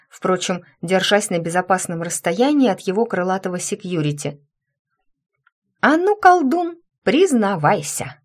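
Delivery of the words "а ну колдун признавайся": commanding demand. Acted. Heroine demands wizard confess.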